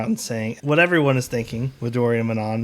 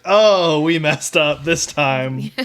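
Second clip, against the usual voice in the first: mock dismay; 3 semitones higher, 4 dB louder, much slower than usual.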